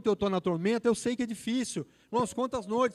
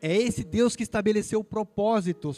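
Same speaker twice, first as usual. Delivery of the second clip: forceful preaching; 2 semitones higher, 6 dB louder than usual. Real, not acted. Preacher stressing God's purpose.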